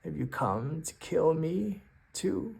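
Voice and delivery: a weary troll asking in a lightly put-on voice; a hint of an old, sad troll. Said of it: "he says something like".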